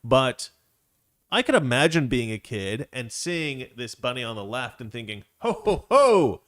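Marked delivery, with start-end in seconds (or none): 5.4-6.4 high, loud, drawn-out ogling whoop; wowed admiration. Acted. Imagined kid seeing the attractive bunny, wowed loud whoop. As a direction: whoop in hammed-up appreciation.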